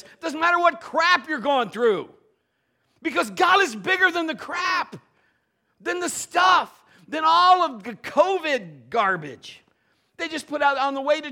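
high, loud preaching climax; preaching full force. Acted. Preacher rousing the congregation, loud and high. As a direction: proclaim it to the church.

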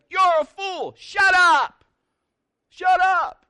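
high, furious-sounding acted shout; loud, high yell with falling ends. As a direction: holler back at an unseen heckler. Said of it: "Somebody's yelling at me".

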